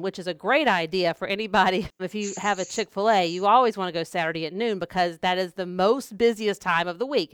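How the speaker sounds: dry sarcasm, saying the opposite of what she means; sarcastic. Real, not acted. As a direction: praise the worst lunch hour with a wink. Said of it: "I'm being very sarcastic right now".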